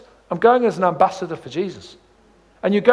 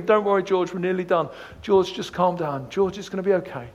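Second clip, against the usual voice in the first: soothing dad; 6 dB quieter than usual. Retold or imitated. Dad soothes screaming baby.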